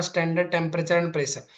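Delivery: standard temperature and pressure drawn out word by word; slow dictation. Shown as a demonstration. Teacher explaining STP to students, slow dictation. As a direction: unpack the abbreviation slowly.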